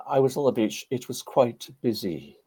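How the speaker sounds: modest understatement in light Welsh lilt; Trevor Bray. Retold or imitated. Storyteller recalls modest veteran, lightly imitated Welsh accent. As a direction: play it down gently in imitated Welsh. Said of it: "Very modest".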